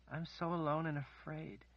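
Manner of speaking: frightened. Acted. Kaelin lost and frightened.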